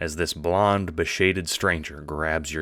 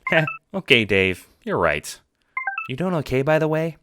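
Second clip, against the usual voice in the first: put-on much higher, eager young John; 10 semitones higher, 4 dB louder than usual. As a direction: pitch way up as the cheerful friend. John agreeing, asking after Dave.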